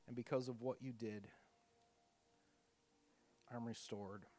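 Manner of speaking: worshipper's thanks at communion, gently. Acted. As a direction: pray it simply to Jesus. Communion prayer spoken aloud.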